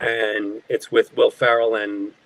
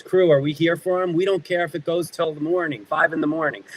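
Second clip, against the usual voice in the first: retold rallying call, pitched up; 6 semitones higher than usual. Director to tired crew backing a nervous actor, rallying. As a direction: imitate calling out to a whole crew, higher.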